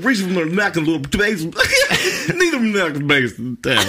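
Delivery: high, loud, breaking into giggles; laughing while reading. Real, not acted. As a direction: push through the giggles. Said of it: "trying to get to the end of the sentence".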